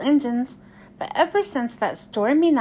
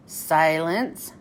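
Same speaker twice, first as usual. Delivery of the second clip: stern command; 6 semitones lower than usual. Acted. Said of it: "said Sir Topham Hatt".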